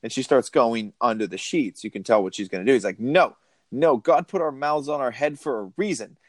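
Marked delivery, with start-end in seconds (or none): 3.0-6.2 lightly imitated young man, higher; a mildly boyish mock refusal; hint of a higher young man's voice; Jack McBrayer. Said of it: "the voice of, like, a young man".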